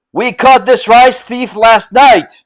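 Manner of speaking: a hint of a rough, slow vassal voice; rough vassal reply. A narrator's reading. Vassals reply to their lord in a lightly voiced rough tone. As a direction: answer the lord with a touch of swagger. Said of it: "the vassals replied".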